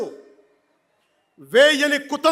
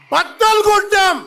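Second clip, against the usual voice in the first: బద్దలు hit hard, higher and louder; louder repeat; 5 semitones higher, 3 dB louder than usual. Real, not acted. Answering his own question to the rally, బద్దలు stressed loud. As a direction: throw బద్దలు at the crowd with a falling punch. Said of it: "ఏం చేశాం?".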